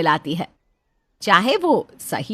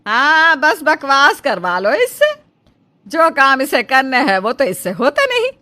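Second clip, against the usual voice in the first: गुस्से में डाँट; 4 semitones higher, 8 dB louder than usual. Acted. माँ बेटे को डाँट रही.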